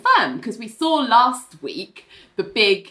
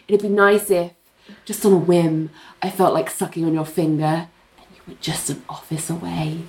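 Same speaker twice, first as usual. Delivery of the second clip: seductive; 3 semitones lower than usual. Retold or imitated. Voices Ling seducing Richard.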